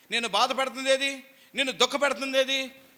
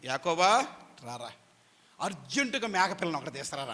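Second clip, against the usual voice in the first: mother calling son; 5 semitones lower than usual. Retold or imitated. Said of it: "అంది".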